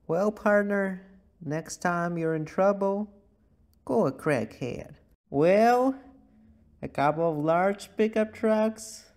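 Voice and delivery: lightly voiced drawling cowboy. Vlogger playing cowboy to viewers, lightly voiced cowboy. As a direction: play a friendly Texas cowboy.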